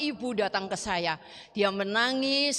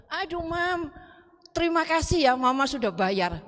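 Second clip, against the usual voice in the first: high, gushing imitation of a child; pitched-up, exclaimed thanks; relieved thanks; 6 semitones higher than usual. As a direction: act out a child's excited gratitude.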